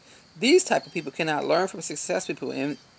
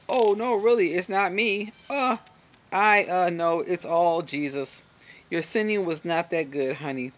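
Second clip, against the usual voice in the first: false humility. Acted. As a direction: brush off the praise in mock humility. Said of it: "The false humility ego says".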